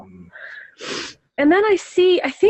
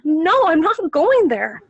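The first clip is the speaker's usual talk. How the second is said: higher, slow, drawn-out refusal in a retold vision; emotional refusal; 5 semitones higher, slower than usual. Woman refuses the glowing figure in her vision, emotional refusal. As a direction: stand your ground with feeling, pitched up and slow. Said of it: "I got emotional at this point".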